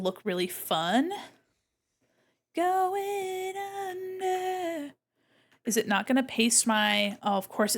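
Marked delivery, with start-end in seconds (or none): 2.5-4.9 drawn-out silly voice. Acted.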